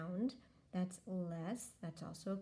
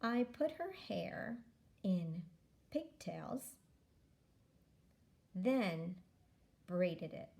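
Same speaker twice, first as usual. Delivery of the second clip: careful reading aloud; much slower than usual. Shown as a demonstration. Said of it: "Okay, watch me read it".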